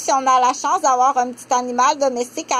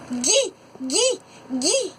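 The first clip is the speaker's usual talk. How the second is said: put-on higher child voice saying « gui »; toddler babble; 4 semitones higher, much slower than usual. Shown as a demonstration. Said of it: "Elle dit". (« gui, gui » d'une voix d'enfant)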